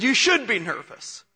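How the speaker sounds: retold whisper. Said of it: "he whispered in my ear".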